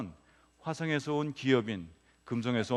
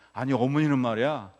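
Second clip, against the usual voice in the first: retold griping; 3 semitones higher than usual. Wife venting to husband about her mother-in-law, retold griping. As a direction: act out a wife's mounting complaint. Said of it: "시어머니 욕을 하더라는 거예요".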